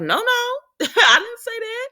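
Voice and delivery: high, loud laughing no no; panicked denial. Retold or imitated. Portia denying it to Ava, high laughing protest.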